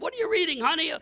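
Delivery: high, surprised question to his crying wife; gentle question to wife. Retold or imitated. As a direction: ask high and tender, a little puzzled. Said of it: "And I said".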